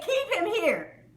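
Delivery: high, drawn-out mock order; godfather-style yell. Retelling her order to hold him, mock godfather yell. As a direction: imitate a would-be mob boss, stretching the words. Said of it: "yells back as if really she's the godfather".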